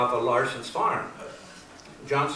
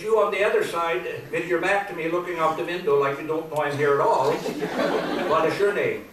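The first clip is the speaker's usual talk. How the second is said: raised pitch, lightly acted sheriff; questioning sheriff; 4 semitones higher, 3 dB louder than usual. Sheriff questioning the boy looking out the window, lightly acted questioning. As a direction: put on a touch of pointed questioning. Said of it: "the sheriff walks over to the car".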